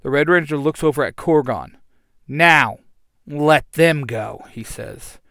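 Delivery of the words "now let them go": firm command. Acted. Hero commands the villain.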